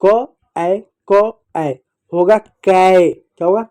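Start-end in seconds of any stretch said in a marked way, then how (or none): 0.1-1.7 क and ऐ apart, "ko... ai"; sounds said separately. Shown as a demonstration. Teacher spelling out sounds for children, क, ऐ separately. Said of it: "तो एक साथ बोलिएगा". 2.4-3.1 कै as one syllable, "kai"; blended sound. Shown as a demonstration. Teacher blending sounds for children, कै as one syllable. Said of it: "तो एक साथ बोलिएगा".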